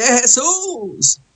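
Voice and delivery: high, long-held imploring call; crying out for mercy. Acted. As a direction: keep calling out, stretching each phrase. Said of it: "Y vuelve".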